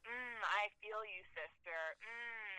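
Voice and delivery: slow, lightly hushed guru imitation; slow down and affirm like an enlightened hippie; mock spiritual dude. Comic playing a spiritual dude in bed, slow mock-soulful voice. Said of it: "one of these spiritual dudes".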